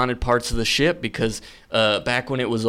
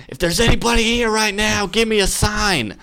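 imitated yell; 9 semitones higher than usual. Buddy calling out to the spirits on the bridge, mock yelling. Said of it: "he just yells out at the top of his lungs".

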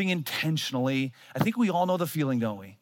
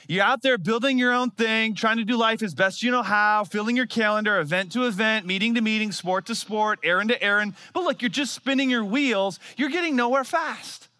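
rising urgency; 7 semitones higher, 3 dB louder than usual. Real, not acted. Preacher building urgency.

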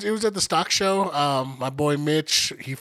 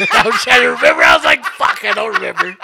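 laughing through the words; can barely get it out for laughing; 7 dB louder than usual. Real, not acted. Laughing while retelling.

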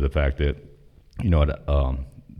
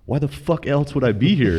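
laughing disbelief; 11 semitones higher than usual. Retold or imitated. Incredulous retort to recruiter.

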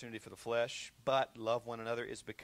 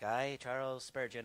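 mock reader voice. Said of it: "this guy was like".

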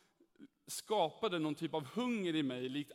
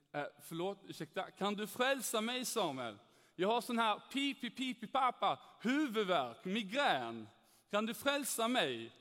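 Skåne dialect; 4 semitones higher than usual. Retold or imitated. The speaker mocking the new Christian colleague, Skåne accent. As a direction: tease him in broad Skåne dialect. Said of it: "en härlig dialekt snart här".

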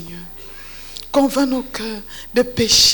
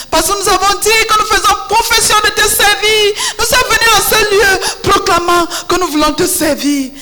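fervent rising prayer; 4 semitones higher, 3 dB louder than usual. Real, not acted. Intercessor's prayer builds in fervour.

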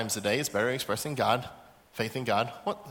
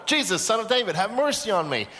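raised-pitch calling out, moderately forceful; louder cry; 5 semitones higher than usual. Acted. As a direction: insist on being heard despite the hushing. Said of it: "He gets louder".

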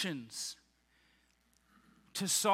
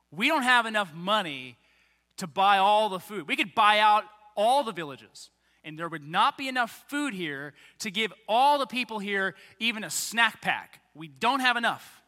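mock worried Philip; 7 dB louder than usual. Philip voiced, anxious protest.

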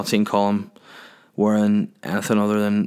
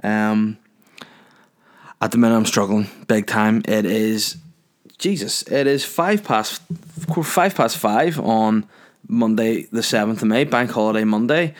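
hungover. Real, not acted. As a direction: drag it out, hungover and struggling. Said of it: "I am hungover as I speak right now".

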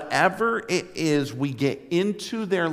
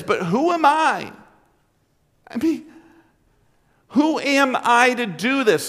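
insecure; 6 semitones higher than usual. Retold or imitated. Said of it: "this feeling of inferiority".

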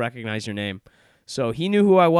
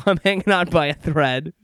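1 frazzled; 5 semitones higher, 6 dB louder than usual. Real, not acted. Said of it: "I'm about to lose it".

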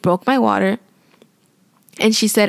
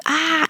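mild mock yell; 8 semitones higher than usual. Woman retelling her yells in labor, mild mock yell. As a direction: imitate a pained yell without the volume. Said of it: "and I yelled".

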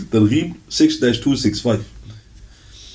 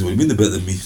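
offended retort; 5 semitones lower, much faster than usual. Retold or imitated.

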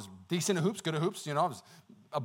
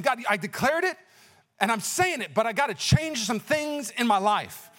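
raised, emphatic declaration; retold earnest vow; 5 semitones higher, slower than usual. Twenty-year-old promising God he will change, retold emphatic vow. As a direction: insist to God, drawing out the ending.

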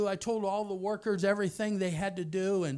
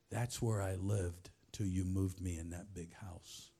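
put-on tearful girl; 12 semitones lower, 7 dB quieter than usual.

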